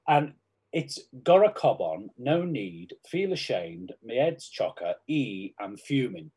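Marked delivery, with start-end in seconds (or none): 1.2-6.3 Scouse accent. Shown as a demonstration. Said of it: "it's Scouse sayings".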